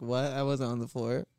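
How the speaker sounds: playing innocent. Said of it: "make him feel crazy and be like".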